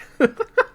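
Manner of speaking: sudden high cackle; high burst of laughter. Real, not acted. Streamer cracks up at his own Cage joke, high cackle. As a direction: laugh out loud, high and short.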